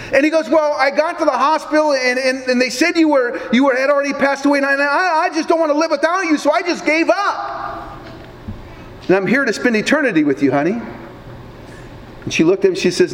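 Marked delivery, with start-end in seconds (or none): 0.5-10.8 higher, rushed, earnest husband pleading; a flustered husband pouring out his excuse; lightly voiced husband, higher and hurried. Husband explains arriving in heaven.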